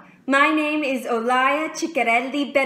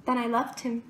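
held-back, fairly quiet declaration; restrained confession; 6 dB quieter, faster than usual. Acted. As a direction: confess it softly before it builds. Monologue, building confession, first steps.

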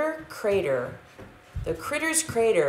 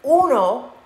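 loud, high shout of uno; 7 semitones higher, 7 dB louder than usual. A narrator's reading. Doggies shout the count, loud. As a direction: call out the count. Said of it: "the doggies shouted".

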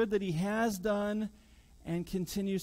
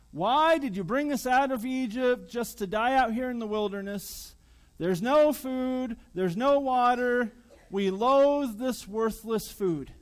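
grumbling complaint; 3 semitones higher, 5 dB louder than usual. Pretend. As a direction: whine like ungrateful people. People grumbling in the wilderness.

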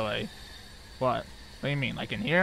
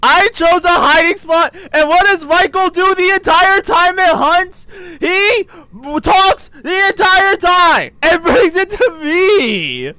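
indignant complaint; 5 semitones higher than usual. Real, not acted. Player blaming Michael for leading the ghost, indignant. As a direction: pile the blame on, incredulous.

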